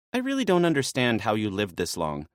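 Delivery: a hint of an exasperated maenad. Naya exasperated with Dionysus, quick and lightly voiced.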